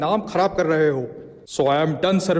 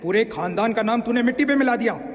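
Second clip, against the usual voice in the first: higher-pitched, indignant father's reproach; angry scolding; 5 semitones higher than usual. Acted. Father rebukes his son over family honour, angry scolding. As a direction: berate a son who shamed the family.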